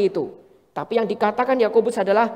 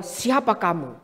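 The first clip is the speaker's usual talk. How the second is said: lower, softer, calm turned-back question; calm counter-question; 4 semitones lower, 5 dB quieter than usual. Retold or imitated. Pastor answering a counselee, calm low counter-question. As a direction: gently turn the question back. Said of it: "Saya cuma jawab sama dia".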